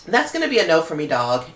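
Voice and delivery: quick, breezy judge's verdict; a light Randy Jackson 'no, dog' impression. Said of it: "in my Randy Jackson from American Idol voice".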